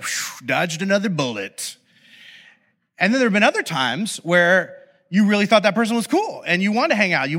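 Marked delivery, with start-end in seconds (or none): 0.0-1.8 exhaled aside of relief; secret relief. Retold or imitated. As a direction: let out a whew, privately relieved. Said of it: "but in your head, you're just like".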